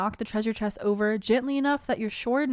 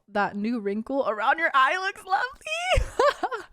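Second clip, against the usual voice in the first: sarcastic; 5 semitones higher, slower than usual. Acted. Roasting Mother Gothel, mocking.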